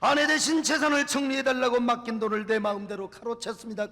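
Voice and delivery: loud repentant plea; pleading confession. Retold or imitated. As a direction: cry out a confession before God. Elder's voiced public confession.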